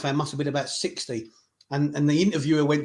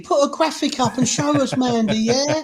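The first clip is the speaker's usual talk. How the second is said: high, loud joking rant; hammed-up indignation, drawing out the last words; mock outrage; 7 semitones higher, 5 dB louder than usual. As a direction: pretend to be indignant, rising higher. Mock outrage at Mandy's message.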